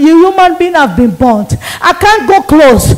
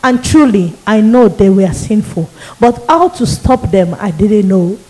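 a hint of a grim demon reading out her sins; 5 semitones lower than usual. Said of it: "the demon said to me".

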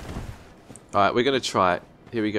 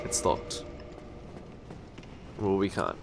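whisper; 4 semitones lower, 10 dB quieter than usual. Real, not acted. Quiet aside while gaming.

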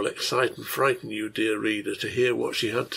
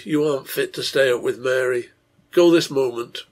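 determined; 4 dB louder than usual. Acted. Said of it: "she said determinedly".

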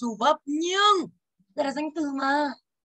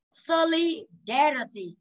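Solidarity said slowly, syllable by syllable, stress on LI; slow stress demo; 3 semitones higher, much slower than usual. Shown as a demonstration. Teacher slowly models for students the stress in Solidarity. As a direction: drag out Solidarity, leaning on LI. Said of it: "Âm ba".

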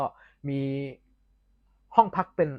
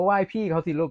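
higher-pitched imitated southern Thai parent; southern Thai accent; 4 semitones higher than usual. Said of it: "ออกเสียงเป็นผีๆ".

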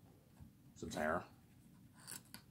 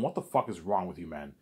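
exasperated Peter; 4 semitones higher, 3 dB louder than usual. Retold or imitated. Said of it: "says, Ivan".

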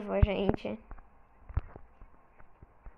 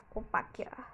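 unvoiced, much softer whisper; 2 semitones lower, 12 dB quieter, much faster than usual. Real, not acted. Gamer quietly claiming a spot, whisper. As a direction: whisper it to yourself.

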